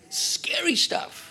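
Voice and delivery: hushed, slow, breathy whisper; whispered warning. Real, not acted. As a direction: whisper it like a dark secret. Preacher's warning aside.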